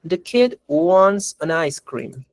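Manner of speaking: slow, careful teacher read; slow clear example sentence; slow model sentence. Shown as a demonstration. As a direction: read it out slowly for the class. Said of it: "una oración que dice".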